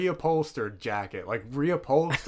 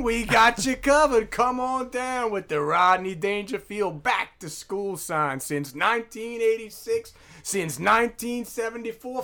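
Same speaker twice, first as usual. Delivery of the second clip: cheesy ad pitch; 3 semitones higher than usual. Acted. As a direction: sell it like a late-night local commercial. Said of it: "Freestyle advertisement".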